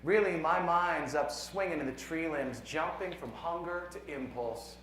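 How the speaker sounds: measured poem reading with deliberate pauses; poetry reading. Acted. Poet reads a science poem to a conference audience, measured poetry reading. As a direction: read it as verse, letting each numbered line land.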